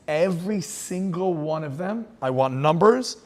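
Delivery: slow, menacing decree from a tyrant; a hint of a cruel commander; cold Nazi order. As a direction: spell out the order slowly and coldly. Hitler's order voiced in story.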